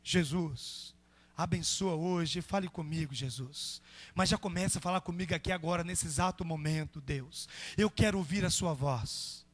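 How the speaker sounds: low-pitched, earnest plea to Jesus; acted personal prayer in a low register; kneeling prayer. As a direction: pray slowly and intimately, on your knees. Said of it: "tá de joelho?".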